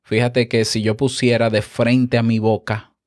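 normal talking voice

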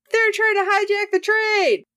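high, urgent mock yell; mock alarmed shout. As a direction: sound the alarm, half-hammed. Bounty hunters yelling at security.

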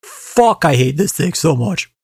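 furious snap at the book; angry outburst. Real, not acted. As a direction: blurt it out in real anger. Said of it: "I am fucking fuming".

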